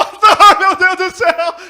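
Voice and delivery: loud, high mock wail; hammed-up crying. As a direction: bawl melodramatically as if in despair. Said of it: "já chega chorando". (choro exagerado, aos gritos)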